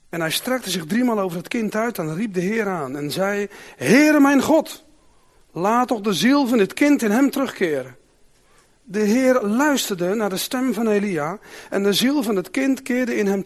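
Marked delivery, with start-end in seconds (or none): 3.8-8.0 crying out to God. Acted. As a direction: call up to heaven in distress. Elijah pleads for child's life.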